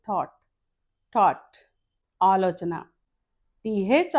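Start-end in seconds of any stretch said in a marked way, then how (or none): 0.1-1.6 "థాట్, టాట్" each said like T-O-T; pronounced as T-O-T. Shown as a demonstration. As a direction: model "థాట్, టాట్" as single T-O-T words. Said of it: "టీ ఓ టీగా పలకాలి". ("థాట్, టాట్" టీ ఓ టీగా పలకడం)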